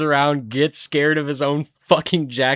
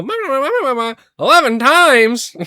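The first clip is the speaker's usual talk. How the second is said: high, loud cartoon babble into a shout; high put-on gibber, then a mock yell; Squidward; 12 semitones higher, 7 dB louder than usual. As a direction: imitate a cartoon character's garbled outburst, stretching the end. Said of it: "Squidward calls the people".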